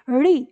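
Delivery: री with the tongue curled to the palate; retroflex demonstration. Shown as a demonstration. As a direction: model a retroflex री. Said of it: "मूर्धा स्थान पर अपनी जीभ ले जाकर". (री को जीभ मूर्धा पर ले जाकर बोलें)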